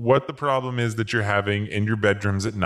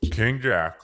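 grovelling recital; 3 semitones higher than usual. Acted. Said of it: "I'm bowing before you".

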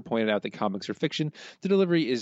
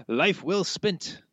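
slow, savoured; 8 semitones higher, much slower than usual. Retold or imitated. Quoting a dream line.

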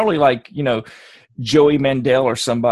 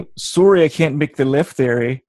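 put-on Canadian accent; 3 dB louder than usual. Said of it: "I always went to the Canadian".

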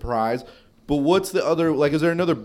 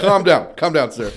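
loud pretend order to a rowdy customer; mock bouncer; 7 dB louder than usual. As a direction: settle him down firmly, half laughing. Plays staff calming rowdy drunk.

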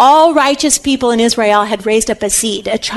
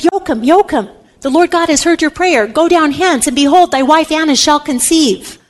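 higher-pitched solemn announcement, lightly voiced; proclaiming angel; 5 semitones higher than usual. An angel answers Joachim's prayer, mildly acted proclamation. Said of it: "an angel came down and said".

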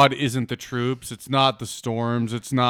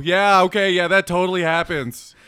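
loud, high eye-rolling sarcasm; sarcastic; 6 semitones higher, 5 dB louder than usual. Real, not acted. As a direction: scoff at it, pitched up. Mocking reply to the letter.

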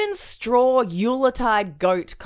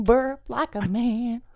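gruff manly voice; slower than usual. Shown as a demonstration. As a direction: say it like a tough guy.

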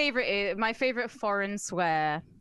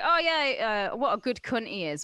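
friendly swearing. Retold or imitated. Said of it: "make swearing sound friendly".

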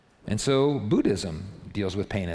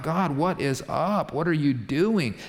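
mildly imitated cry to God, pitched up; retold outcry; 5 semitones higher than usual. Isaiah crying out to God, mock outcry. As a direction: plead upward, drawing out the question. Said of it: "Isaiah cried out".

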